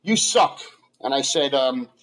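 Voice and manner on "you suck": retold yell from the crowd, pitch climbing higher; mock heckler yell. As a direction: toss the insult up like a heckler in the back row. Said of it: "And he yells".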